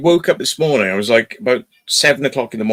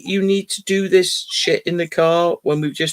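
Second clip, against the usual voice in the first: incredulous scolding; 4 semitones higher than usual. Retold or imitated. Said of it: "I was just like".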